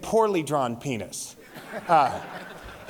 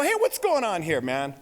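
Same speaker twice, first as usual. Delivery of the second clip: raised-pitch confrontation; comic, put-out demand; indignant challenge. Retold or imitated. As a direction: act the cocky dad challenging a cop. Acted confronting of the detective.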